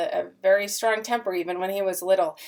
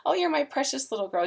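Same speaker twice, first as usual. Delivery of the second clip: parentese; 6 semitones higher, faster than usual. Shown as a demonstration. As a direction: lift the voice up for the infant.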